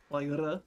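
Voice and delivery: R rolled hard with the tongue tip. Shown as a demonstration. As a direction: trill the R at the front of the mouth. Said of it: "what we call a hard R".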